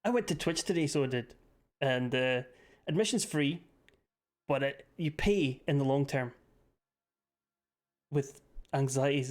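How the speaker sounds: a rough, half-hearted go at a Northern Irish accent; attempted Northern Irish accent. Shown as a demonstration. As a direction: reluctantly put on a Northern Irish lilt. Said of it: "There, I tried, I tried, I'm sorry".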